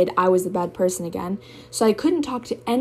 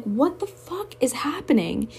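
breathless high whisper of disbelief; stunned whisper; 6 semitones higher, slower than usual. Retold or imitated. To herself, hearing the partner call her fucked up, a stunned whisper. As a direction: hush it out like you can't believe it. Retelling her confused reaction.

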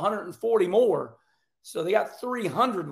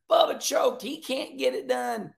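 mocking critics; 4 semitones higher than usual. Host mimics fans taunting Bubba, in a high jeering voice. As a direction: sneer it like a gloating critic. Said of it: "he knows everybody's out there".

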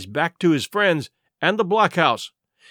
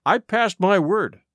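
firm; 4 semitones higher, slower than usual. Acted. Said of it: "said I".

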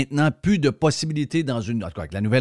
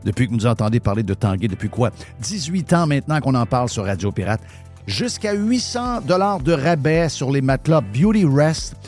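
upbeat sponsor read; 3 semitones higher than usual. Acted. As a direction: sell it like a radio ad. Reads sponsor ad.

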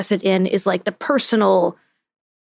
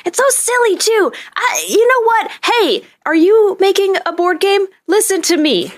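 high-pitched, exasperated mock outburst; mock rant; 8 semitones higher than usual. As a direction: rail at them in a high, playful rant. Mock rant at game makers.

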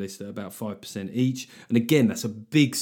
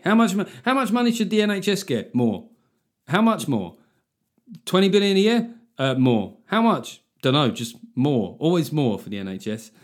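mock interrogation; 4 semitones higher, 4 dB louder than usual. Interviewer pressing the public on NHS money, mock interrogation. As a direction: play both sides of a pressing Q&A. Acted two-voice question and answer.

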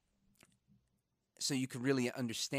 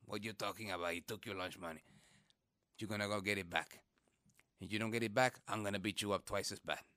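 stern dad; 6 semitones lower, 3 dB quieter than usual. Retold or imitated. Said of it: "And he said".

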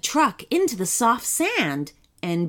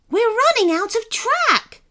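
high, raised warning cry; alarmed shout; 13 semitones higher, 4 dB louder than usual. A narrator's reading. Sloth driver as track's end nears, warning shout. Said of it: "shouted Sebastian".

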